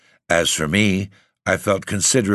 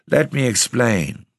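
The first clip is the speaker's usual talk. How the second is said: pleading exclamation; 6 semitones higher than usual. Acted. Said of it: "I exclaimed".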